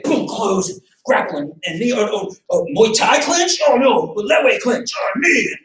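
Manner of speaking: rising, flustered mock panic through the list; mock flustered fighter. Instructor mocks an overthinking fighter, flustered and rising. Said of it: "You're not gonna be thinking".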